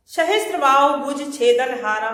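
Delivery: loud declaimed verse; verse recitation. Shown as a demonstration. Teacher quoting Parashuram on the axe, loud recitation. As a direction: declaim the line to a class.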